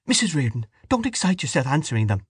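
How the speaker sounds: calm her down without raising your voice; soothing plea. A narrator's reading. Wife soothing an excited guest.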